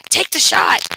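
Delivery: urgent yell, held back for retelling; retold scream. Retelling the officer ordering a strike, mock scream. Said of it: "Tyler starts screaming".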